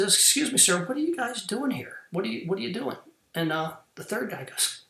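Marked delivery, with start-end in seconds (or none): 0.0-3.0 higher, hesitant and polite; a touch of nervous caution in the question; apprehensive woman. Retold or imitated. Woman warily asks the third worker, apprehensive. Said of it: "kinda apprehensive at this point".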